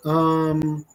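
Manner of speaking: long droning "um" on one note; imitated monotone filler; mocking filler um. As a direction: drag out a mock hesitation. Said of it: "and pick up the".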